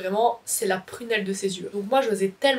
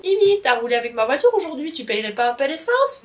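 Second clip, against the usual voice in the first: higher, louder mock mum asking for petrol money; imitating mum; 5 semitones higher, 4 dB louder than usual. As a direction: play the nagging mum. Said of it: "qu'elle me dise". (maman qui réclame l'essence, imitée plus aigu et fort)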